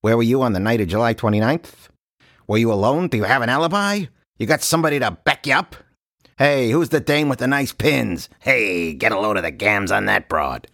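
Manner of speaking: clipped hard-boiled questioning; cold probing inspector. Retold or imitated. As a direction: grill them like a 1940s cop. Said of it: "like a detective".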